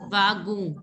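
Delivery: Vagu corrected, no N sound; silent N. Shown as a demonstration. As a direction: say Vagu ending cleanly on the vowel. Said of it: "N sound should not be there".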